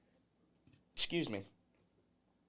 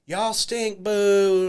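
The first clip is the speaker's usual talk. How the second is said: mock heckler's yell with a long booed finish; imitated heckling; 3 semitones higher, 4 dB louder, much slower than usual. Angry woman in crowd heckles wrestlers, mock yelling. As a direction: heckle like a hostile crowd member. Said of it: "just screaming at us".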